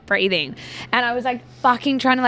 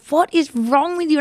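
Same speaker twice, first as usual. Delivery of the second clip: higher-pitched mock alarm; retold alarm; 7 semitones higher, 4 dB louder than usual. Housemate reacting to her screams, imitated alarmed question. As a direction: imitate someone startled by screaming.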